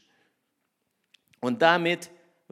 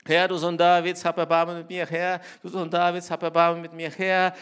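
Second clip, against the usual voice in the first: mild mock crying out; 2 semitones higher, 6 dB louder than usual. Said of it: "sie wiederholt diesen Satz immer und immer wieder".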